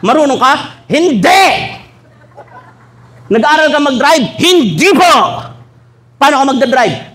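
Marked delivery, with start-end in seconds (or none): 0.9-1.5 cheerful high no; happy-go-lucky denial; naive congregant. Acted. Congregant answers bishop. 4.4-5.1 high, polite cheerful no; naive congregant. Acted. Congregant answers bishop.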